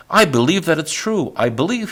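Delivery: high, loud, joyful burst. A narrator's reading. Donkey bursting out his faith to the man. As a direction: blurt out belief with joy. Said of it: "The donkey burst out".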